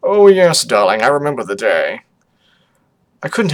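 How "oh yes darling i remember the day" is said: fond parent character. Acted. Parent reminiscing to a darling, lightly theatrical. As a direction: play a parent recalling the day.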